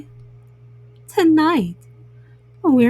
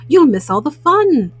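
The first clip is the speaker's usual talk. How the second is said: crying out; 3 semitones higher, 5 dB louder than usual. Acted. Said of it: "cried Frog".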